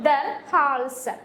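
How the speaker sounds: ദർ ഹാൾസ് said slowly, each sound spelled out for students; teacher drawing out ദർ ഹാൾസ് very slowly; slow German demo. Shown as a demonstration. Teacher models German for neck to the class, slowly. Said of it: "നെക്കിന് എന്താ പറയുന്നത്?".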